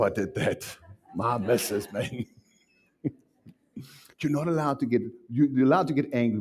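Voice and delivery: usual speaking voice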